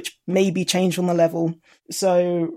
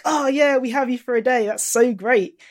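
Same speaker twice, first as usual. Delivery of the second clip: higher-pitched mock-delighted greeting; delighted welcome; 5 semitones higher than usual. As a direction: act out an eager team welcome. Team acts out welcoming part-time helpers.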